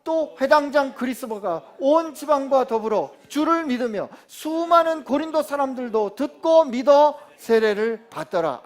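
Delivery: slow, loud solemn reading of the verse; scripture reading. Acted. Pastor reading the verse to the congregation, slow and loud. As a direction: read it out slowly to the whole hall.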